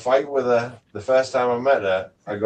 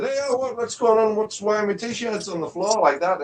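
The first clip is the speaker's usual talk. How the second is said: high-pitched indignant challenge; indignant confrontation; 8 semitones higher than usual. Retold or imitated. Man confronting a woman over his T-shirts, indignant. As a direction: re-enact demanding an explanation.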